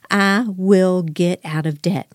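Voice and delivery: slow, deliberate words for the listeners to repeat; slow affirmation to repeat. Shown as a demonstration. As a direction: lead the listeners through it slowly. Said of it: "everybody say it right now".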